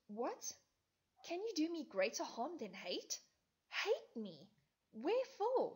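put-on high, loud, stricken young woman; distressed Hermia. Hermia pleading with Lysander, high and stricken. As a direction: cry out in hurt disbelief.

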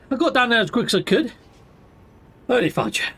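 breathless after rushing; speaking between breaths. Real, not acted. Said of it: "I'm out of breath now".

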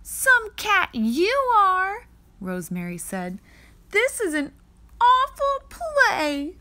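put-on high, loud, slow disgusted girl; scornful scolding. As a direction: snap it at the clumsy cat. Angry girl scolds the cat.

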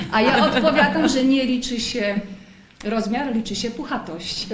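laughing through the punchline. Real, not acted. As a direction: chuckle while delivering the joke. Host jokes about Misio's size.

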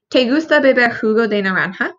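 careful Spanish reading of "¿Te gusta beber jugo de naranja?"; Spanish read aloud. Shown as a demonstration. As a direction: read the Spanish question clearly for students. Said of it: "This one asks you".

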